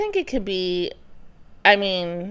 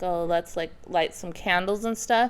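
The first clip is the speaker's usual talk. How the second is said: much softer, dreamy mock romance; soft mock-sensual voice; 4 semitones lower, 9 dB quieter than usual. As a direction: breathe it like a cheesy seduction. Mocking the sensual romantic type.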